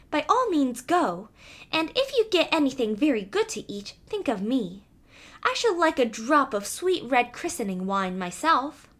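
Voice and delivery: a hint of a small eager mouse. Mouse asking the cat for wine, light mouse voice.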